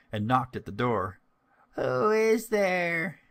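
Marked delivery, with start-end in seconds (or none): 1.7-3.2 put-on high, slow old-lady call; lightly voiced old woman asking; old grandmother's voice. A narrator's reading. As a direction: draw it out like a frail grandmother. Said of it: "said some voice in the house".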